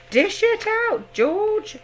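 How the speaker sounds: high, loud and slow call; eager cry. A narrator's reading. Father urging George to serve the medicine, high and loud. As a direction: urge him on with a cry. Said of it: "cried Mister Cranky".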